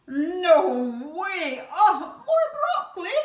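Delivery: put-on loud, high outraged child; child refusing. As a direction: shriek the refusal like a disgusted kid.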